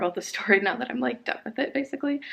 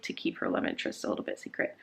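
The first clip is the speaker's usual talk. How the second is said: whispering; 11 dB quieter than usual. Real, not acted. Playful aside about keeping a secret.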